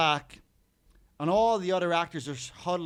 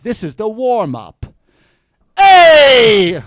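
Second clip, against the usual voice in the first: much higher, much louder, slow then a huge yell; aggressive shout; 8 semitones higher, 19 dB louder, much slower than usual. Shown as a demonstration. Busker showing how he reeled in his audience, aggressive shout. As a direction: bellow it at the crowd like a threat. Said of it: "recite the alphabet really aggressively".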